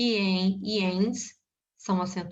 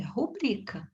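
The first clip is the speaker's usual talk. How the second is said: softer "rubrica" with the middle syllable BRI stressed; 4 dB quieter, slower than usual. Shown as a demonstration. Teacher confirming the correct word for students, "rubrica" stressed on BRI. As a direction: repeat "rubrica" quietly, accent on BRI.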